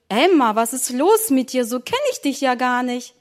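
a touch of motherly puzzlement; mildly astonished. Acted. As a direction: ask with mild wonder. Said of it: "dass die Mutter ganz verwundert fragte". (leicht verwundert)

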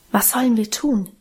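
ordinary delivery

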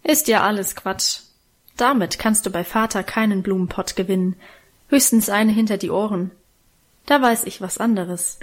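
ruhig, gemächlich. Acted. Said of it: "mit dieser ruhigen Stimme".

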